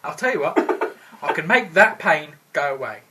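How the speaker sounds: menacing offer. Acted. Threatening the whiner.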